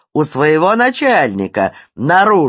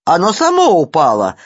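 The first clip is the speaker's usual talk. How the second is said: high, loud squealing denial; shrieking; 7 semitones higher, 5 dB louder than usual. A narrator's reading. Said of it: "завизжал Ситечкин".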